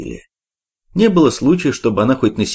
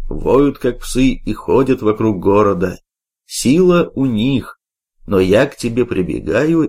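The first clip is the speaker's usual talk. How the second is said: prayer reading. A narrator's reading. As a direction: pray the psalm steadily. Читает псалом. (чтение молитвы)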